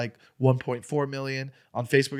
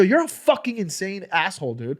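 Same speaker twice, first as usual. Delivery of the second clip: retold insult; 6 semitones higher, 3 dB louder than usual. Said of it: "just going at it".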